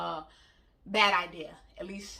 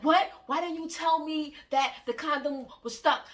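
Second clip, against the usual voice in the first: shocked partner; 7 semitones higher, 3 dB louder than usual. Retold or imitated. Partner's shocked reaction voiced.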